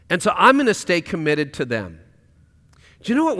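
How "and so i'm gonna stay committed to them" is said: heartfelt prayer. Pretend. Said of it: "surrender that to God and say".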